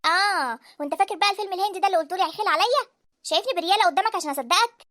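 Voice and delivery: heated, scornful challenge; angry disbelief. Acted. Wife rejects husband's cover story, angry disbelief.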